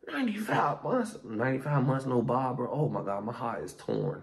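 high, hammed-up cry of disbelief; mock despair. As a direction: wail it as if the sentence were yours. Despairing at the imagined sentence.

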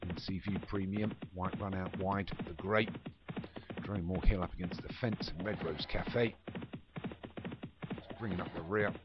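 live play-by-play calling the runners; race commentary. Acted. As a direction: call the field like a racecourse commentator.

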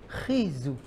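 חיזוק in an Ashkenazi yeshiva accent, stress on the first syllable. Shown as a demonstration. Rabbi mimics Ashkenazi pronunciation for his audience, Ashkenazi accent. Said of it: "או במבטא אשכנזי".

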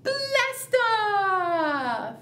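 rising countdown ending in a cheer; countdown to blast off. Shown as a demonstration. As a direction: count down with the class, then launch. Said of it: "let's count down".

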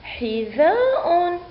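حذاء joined as one slow, high word; teacher's drawn-out whole-word model; blended word reading. Shown as a demonstration. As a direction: read it unbroken with a long aa. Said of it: "سنقرأ الكلمة".

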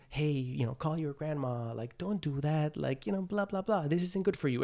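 a quiet, kindly nudge from within; soft inner voice. Acted. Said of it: "It's soft".

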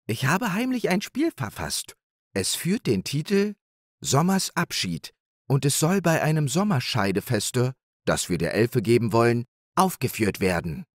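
high, modestly proud hare voice; proud hare Nepomuk. Acted. Hare telling his wife about his play, proudly.

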